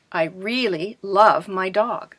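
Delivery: slow, with weight on "really" and "love"; stressed example sentence. Shown as a demonstration. Teacher showing class how stress emphasizes meaning, stressing "really" and "love". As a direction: draw out "I really love my dog", leaning on "really" and "love". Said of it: "you will stress certain words".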